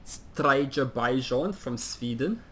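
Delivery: name said in a mock Swedish accent. Commentator announcing a player's name in a put-on Swedish accent. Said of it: "have to do it in Swedish accent".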